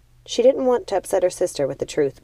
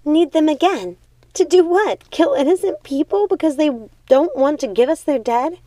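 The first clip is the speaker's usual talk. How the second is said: much higher, louder horrified outburst; thunderstruck, furious; 10 semitones higher, 6 dB louder than usual. A narrator's reading. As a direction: explode in horror. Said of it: "Primrose was thunderstruck".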